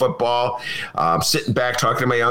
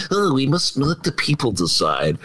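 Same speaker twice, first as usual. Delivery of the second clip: Mitch McConnell imitation; 3 semitones higher than usual. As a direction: lightly mimic the senator, mocking. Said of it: "I will now do my Mitch McConnell imitation".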